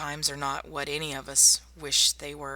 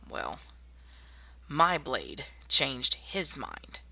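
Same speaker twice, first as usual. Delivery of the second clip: slow and menacing; much slower than usual. Acted. Recounting how she killed her attacker.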